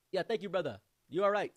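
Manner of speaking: loud, high mock African accent; imitated African friend. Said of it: "And he was like".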